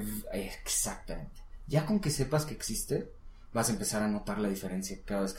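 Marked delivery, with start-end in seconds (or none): 0.0-0.2 slow buzzing v-; vibrating v. Shown as a demonstration. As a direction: hold the v- buzz. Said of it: "la otra es más vibración". (v- vibrada y lenta)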